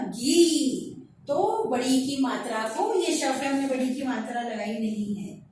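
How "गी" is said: गी drawn out with a long ee; long vowel. Shown as a demonstration. Teacher answers her own question, गी said long. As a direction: hold the vowel of गी. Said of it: "क्या होगा?".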